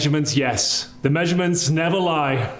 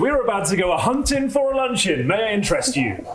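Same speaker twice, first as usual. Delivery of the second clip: higher, hammed-up old English courtier; mock courtly; 5 semitones higher than usual. Inviting the manager to lunch like a mock medieval courtier. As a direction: greet him like a knight of old.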